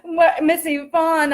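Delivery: real laugh breaking into the words; amused, slow start through laughter. Real, not acted. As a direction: start talking through leftover giggles. Speaker laughing while reading comments.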